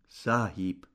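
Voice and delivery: low, hushed murmur; soft murmur. A narrator's reading. Waiter bowing with the whisky, soft murmur. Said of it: "murmelte leise".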